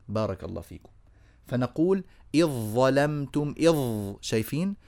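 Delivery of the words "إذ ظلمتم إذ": slow إذ ظلمتم as "iẓ-ẓalamtum", then إذ held on ẓ; الذال merged into الظاء. Shown as a demonstration. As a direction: go from the hamza of إذ directly into ظ. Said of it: "من همزة دخلت إلى الظاء مباشرة". (إدغام ذال "إذ" في ظاء "ظلمتم")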